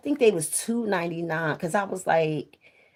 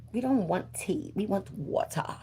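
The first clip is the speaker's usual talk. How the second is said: mock whisper; 7 dB quieter than usual. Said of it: "I was so surprised when they said".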